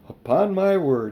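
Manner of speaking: put-on a flustered old man gasping it out; a lightly voiced rattled uncle; Uncle Andrew's exclamation. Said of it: "he said to himself".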